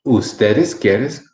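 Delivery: slow "Ustedes quieres", each word lifted at its end; question intonation. Shown as a demonstration. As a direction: slowly start the question, "quieres" swinging up. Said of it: "but this is the question".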